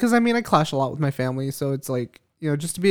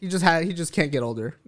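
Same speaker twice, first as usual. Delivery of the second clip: laughing; 4 semitones higher than usual. Real, not acted. Joking about son staying young.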